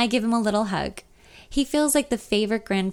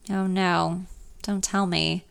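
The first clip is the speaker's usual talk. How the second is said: deeper voice; slower than usual. Acted. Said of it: "his voice becoming deeper".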